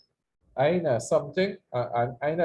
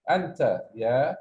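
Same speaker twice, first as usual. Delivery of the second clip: model sentence; faster than usual. Shown as a demonstration. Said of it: "Say after me".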